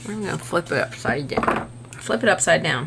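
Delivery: talking around a paintbrush held in teeth; words muffled by a brush in the mouth. Real, not acted. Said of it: "I'm trying to talk with a paintbrush in my mouth".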